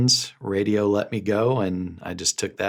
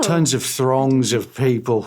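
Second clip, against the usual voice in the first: louder, higher showy star voice; put-on voice; 4 semitones higher, 4 dB louder than usual. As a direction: play a pompous celebrity. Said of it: "why are you talking like that".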